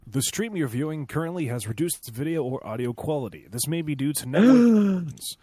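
loud, booming radio announcer read. Pretend. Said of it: "want me to read it in a radio voice".

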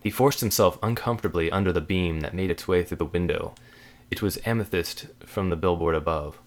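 measured, dramatic story reading; story narration. A narrator's reading. Author reads a spooky story to a friend, measured narration. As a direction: read a dark tale aloud deliberately.

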